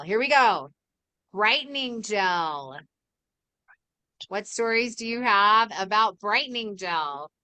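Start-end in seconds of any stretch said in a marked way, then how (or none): 1.3-2.8 slow drawn-out call; bingo caller. Acted. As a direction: announce it like a bingo number. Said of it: "Okay, next call".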